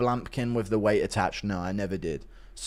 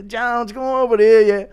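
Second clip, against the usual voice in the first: high, louder mock Irish voice; put-on Irish fighter, pitched up; Conor McGregor; 7 semitones higher, 5 dB louder than usual. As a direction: call over a gym buddy, mock Irish. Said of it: "Impression of Conor asking Jones to spot him".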